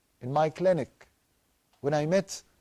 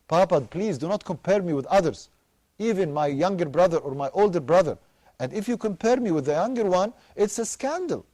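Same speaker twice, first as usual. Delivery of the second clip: put-on pleading child; 2 semitones higher than usual. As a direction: beg Papa not to compare you with your brother. Child begging father not to compare.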